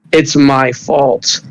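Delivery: slow, weary echo of the guilt; grief-stricken repeat. Acted. Maruki repeating his guilt to his fiancée, slow and sorrowful. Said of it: "he starts crying".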